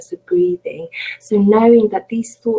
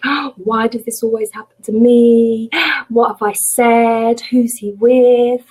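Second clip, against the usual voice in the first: mildly dramatised fretting, higher and louder; mock fretful thoughts; 3 semitones higher, 4 dB louder than usual. Teacher voicing the mind kicking in after a cancelled date, mock fretting. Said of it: "we may think things like".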